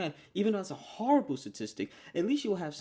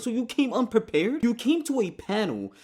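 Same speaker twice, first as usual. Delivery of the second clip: heated rant; 5 semitones higher, 4 dB louder than usual. Real, not acted.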